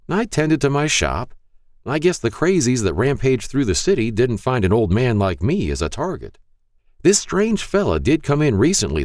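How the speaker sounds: put-on high, frail old man voice; Mister Hall's frail voice. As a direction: speak like a frail elderly shopkeeper. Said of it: "a frail voice said".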